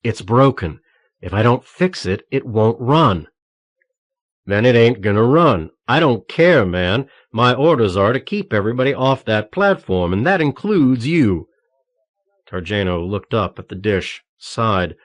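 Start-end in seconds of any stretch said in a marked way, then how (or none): 0.0-3.3 calm put-on American accent; steady American accent, explaining. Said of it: "in his best American accent". 4.5-11.5 loud, gruff refusal; angry gruff guard. Acted.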